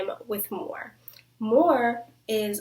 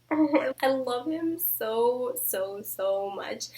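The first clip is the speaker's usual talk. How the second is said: gushing; 3 semitones higher, slower than usual. Real, not acted. Gushing over Cassian.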